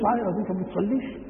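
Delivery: quick, scolding rebuke; reproachful question. Shown as a demonstration. Sheikh scolding a boy who skips prayer, reproachful. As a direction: call the boy over and reproach him. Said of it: "معناها أنك تنكر عليه".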